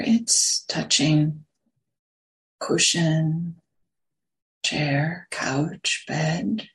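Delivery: unhurried meditation guidance, long silences between phrases; guided meditation. Real, not acted. Teacher settling a group into sitting posture, guided meditation. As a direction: guide them gently into the sit, phrase by phrase.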